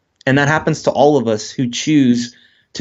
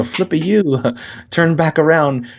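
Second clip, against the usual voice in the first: lightly voiced sat-nav, a touch higher, laughing through it; polite GPS voice; 4 semitones higher than usual. Guest mocks his GPS giving directions, mock-polite and laughing. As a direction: play the overly courteous navigation voice with a chuckle. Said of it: "the G P S is so polite".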